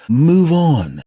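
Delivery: blunt shouted advice; loud command. Acted. Comic advice punchline.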